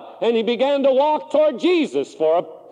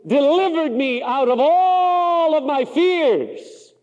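psalmist's words; 7 semitones higher, slower than usual. Acted. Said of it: "like the psalmist said".

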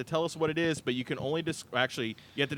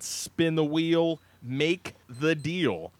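slow, drawn-out game-show title call; much slower than usual. Acted. Host introducing the game to his co-hosts, drawn-out announcer call. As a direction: stretch the name out like a TV host.

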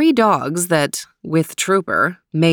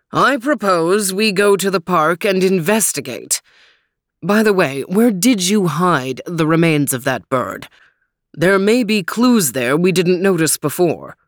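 lightly voiced, thoughtful dog detective; a hint of a gruff dog; Overton the dog.

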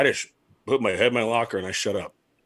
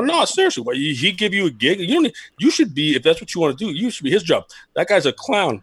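higher-pitched, animated reenactment of pestering; mock needling; 4 semitones higher than usual. Former player needling his manager about the clown, animated retelling. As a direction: play yourself egging him on, pitched up.

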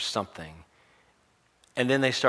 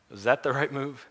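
higher, uncertain self-questioning; regretful questioning; 5 semitones higher than usual. Acted. Jesus doubting himself after everyone leaves, regretful questioning. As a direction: ask it as if second-guessing yourself. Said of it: "regretful or questioning".

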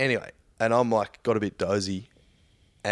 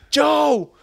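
high, drawn-out mock shriek; retold yell; 5 dB louder, much slower than usual. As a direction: call down the aisle as the irate passenger. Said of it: "then she yells".

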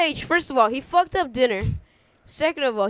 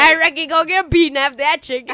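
put-on Southern accent; 3 semitones higher, 5 dB louder than usual. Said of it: "we're all Southern".

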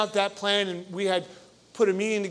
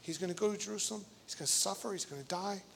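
mock whisper; 6 dB quieter, faster than usual. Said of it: "Then they begin whispering to one another".

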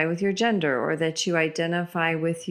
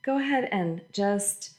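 guided meditation. Acted. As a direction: lead them gently into breathing. Leads a guided breathing meditation.

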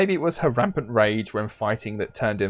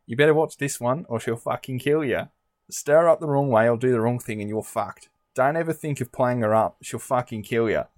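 lightly put-on Australian accent. Shown as a demonstration. Host redoing the mother-in-law's warning on request, light Australian accent. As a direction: read the quote with an Australian twang. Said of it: "do it in an Australian accent".

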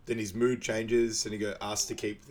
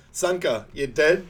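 raised, louder call to check on someone; 5 semitones higher, 7 dB louder than usual. Retold or imitated. Quoting Derice after Sanka crashes, high loud call. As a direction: call over to a crashed friend.

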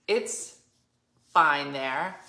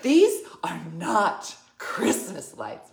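mock indignant correction; 4 dB louder, slower than usual. Mimicking Wendy's indignant correction.

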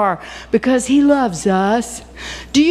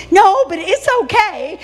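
put-on much higher, childlike reply; little granddaughter; 9 semitones higher than usual. Granddaughter answering grandma on the phone, high child voice. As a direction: answer like a cheeky little girl. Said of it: "Does your mama know".

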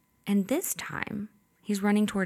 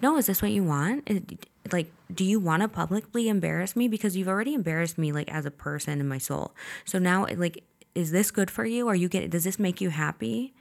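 mock confrontation. Quarrel on knees, retold.

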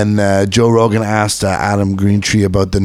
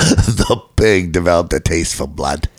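bad Australian accent; 5 semitones lower, slower than usual. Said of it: "was that Australian".

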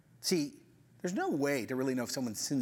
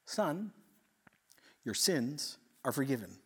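gentle authority. Acted. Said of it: "he says with gentle authority".

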